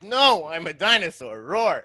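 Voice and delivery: loud kid pretending to be a dinosaur. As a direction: roar it like a playful dinosaur. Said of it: "He's like".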